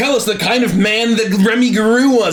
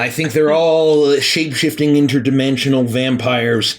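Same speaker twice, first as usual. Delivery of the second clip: conspiracy-minded character; 6 semitones lower, slower than usual. Acted.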